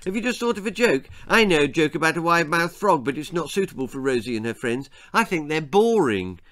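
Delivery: put-on rapid boyish babble; chattering boy Jack. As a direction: prattle on without a breath.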